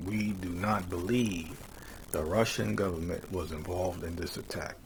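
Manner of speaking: we do not believe drawn out slowly, each word weighed; slow emphatic reading. Shown as a demonstration. Host rereading Biden's statement to stress it, slow and deliberate. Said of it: "I emphasize".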